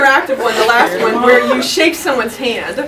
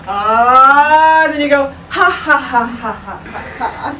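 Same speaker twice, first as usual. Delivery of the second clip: a building aah that tips into stepped ha ha ha; demo laugh; slower than usual. Shown as a demonstration. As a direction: show the step-down laugh. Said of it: "so I'll demo it".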